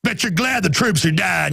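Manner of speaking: a hint of a sarcastic heckler; mock fake-friendly heckler. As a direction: play a two-faced guy faking praise. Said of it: "they're like".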